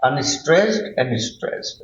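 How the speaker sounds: slowly spelled out for the class; slow, deliberate teacher's answer; slow explaining. Shown as a demonstration. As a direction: lay out each word slowly. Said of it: "what happens?".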